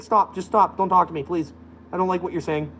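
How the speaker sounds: quietly begging them to stop; fed-up plea. Retold or imitated. Pleading with a ranting stranger, soft and weary. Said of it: "It's like".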